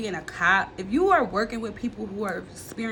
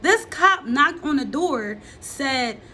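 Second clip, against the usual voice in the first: higher, louder indignant rant; angry; 4 semitones higher, 3 dB louder than usual. Real, not acted. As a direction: build the outrage as you go. Rising anger about mom.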